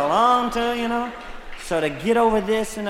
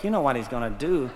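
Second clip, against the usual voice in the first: grumbling shoulder; 7 semitones lower, faster than usual. Acted. His shoulder dreads the morning swim, a weary quick grumble. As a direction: mutter it like a fed-up body part. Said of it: "My shoulder went".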